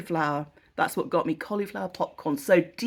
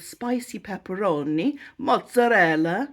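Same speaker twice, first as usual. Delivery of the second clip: playful mock Italian accent. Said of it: "Why am I doing an Italian accent?".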